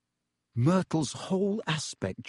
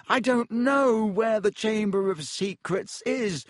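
weak; 9 semitones higher than usual. A narrator's reading. Lockhart weak pleading.

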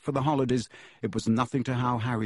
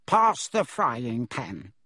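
smug demand; much slower than usual. Acted. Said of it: "grinned and turned to Harry".

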